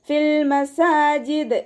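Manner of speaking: മസാജിദ് ending on a bouncing ദ്; stop with qalqala. Shown as a demonstration. Teacher models the stop on മസാജിദ്, high slow chant. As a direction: end മസാജിദ് with full sukun on ദ്. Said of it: "അതുപോലെ വഖഫ് ചെയ്യുക".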